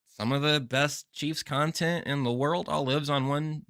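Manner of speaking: high, soft put-on character voice. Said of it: "What accent was that?".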